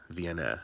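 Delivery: "Vienna" as vee-EN-eh; ending in "eh". Shown as a demonstration. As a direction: finish "Vienna" on a short "eh". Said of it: "E H for eh".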